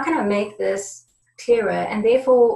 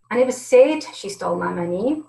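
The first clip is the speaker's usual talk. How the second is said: "said" stressed, the line ending on a rise; 3 dB louder than usual. Shown as a demonstration. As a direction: lean on "said". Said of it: "the tone and inflection is different in every single word".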